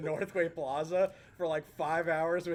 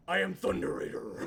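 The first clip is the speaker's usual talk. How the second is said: mock stage character; 2 semitones higher than usual. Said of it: "in this tone".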